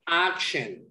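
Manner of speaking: ACTION with a firm first syllable, falling away; stress on first syllable. Shown as a demonstration. Teacher showing a student word stress, first syllable stressed. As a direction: lean on the AC of "action". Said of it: "stress is the emphasis you make in a word".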